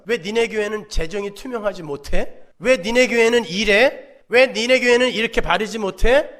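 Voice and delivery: loud, rising accusation, each 왜 hit hard; accusing scold. Retold or imitated. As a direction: scold the church as its critics would. Accusing critics voiced.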